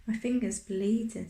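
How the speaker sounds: tearful. A narrator's reading. Boy complains of his bitten finger, mildly tearful. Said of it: "tears on his voice".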